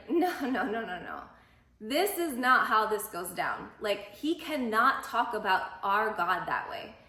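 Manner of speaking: youthful indignation, mildly acted; indignant. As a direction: push back hard, outraged. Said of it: "He's, like, mad".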